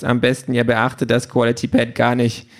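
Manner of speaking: offended machine mimicking advice in a put-on voice; huffy. A narrator's reading. Pink parrots Peter's advice to ignore it, huffy. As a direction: echo it back huffily, in character. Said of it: "Pink ist aber schon eingeschnappt".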